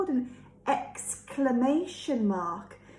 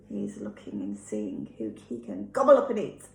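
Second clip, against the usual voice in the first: lightly voiced wolf; 10 semitones lower than usual. Low growly wolf voice.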